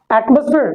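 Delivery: "एटमॉस्फेयर" with weak middle, at-mus-fir; correct pronunciation. Shown as a demonstration. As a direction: reduce the "mos" in "एटमॉस्फेयर" to "mus". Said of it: "इसे पढ़ते क्या है". ("एटमॉस्फेयर" को ऐट-मस-फिर)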